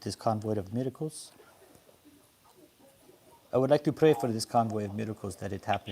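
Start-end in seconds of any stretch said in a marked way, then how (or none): 3.5-5.9 choppy phone line; breaking up. Real, not acted. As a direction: signal cutting in and out. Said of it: "Repeat that 'cause you're breaking up a bit here".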